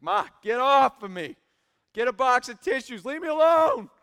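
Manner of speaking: mock exasperated son. Son shoves off crying mother.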